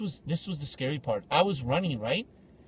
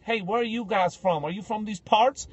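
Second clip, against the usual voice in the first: mock rural American twang, pitched up; imitated hick family accent; 4 semitones higher than usual. Woman in the queue quizzes strangers, mock hick accent. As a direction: do a nosy local in a backwoods American accent. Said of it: "they started speaking like this".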